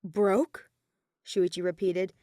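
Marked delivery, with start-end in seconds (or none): 0.0-0.7 whispered repeat. Acted. Repeating the word in disbelief.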